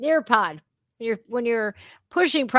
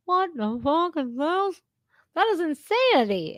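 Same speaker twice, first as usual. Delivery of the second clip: shocked; 8 semitones higher than usual. Retold or imitated. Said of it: "I was shocked".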